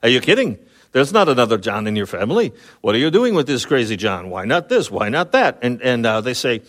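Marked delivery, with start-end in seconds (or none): 0.0-5.6 astonished. Retold or imitated. Neighbors astonished at name John.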